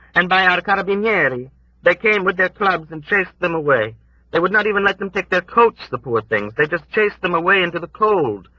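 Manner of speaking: put-on high, lamenting old woman; old woman's voice. A narrator's reading. Old woman recounts the raid.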